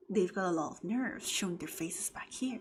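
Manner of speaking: hushed, resentful whisper. Acted. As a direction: whisper it like a suspicious villager. Reads a whispered character line.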